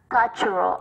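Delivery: "cultural" slowly, stressed on "cul"; first-syllable stress. Shown as a demonstration. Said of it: "âm một".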